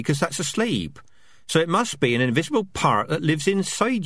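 squeaky rat chatter. Acted. Rats voiced in dialogue.

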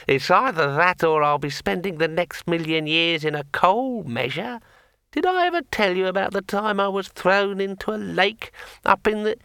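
talking sword. A narrator's reading. Sword Kring keeps talking.

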